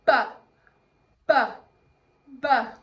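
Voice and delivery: loud, short B sound "ba", three times; letter-sound demo. Shown as a demonstration. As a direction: punch out each "ba" separately. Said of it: "Bee Bubba Bear says".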